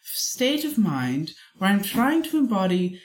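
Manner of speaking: measured British character; British accent. Shown as a demonstration. Cohost explaining the hated persona, in a British accent. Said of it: "do a British voice".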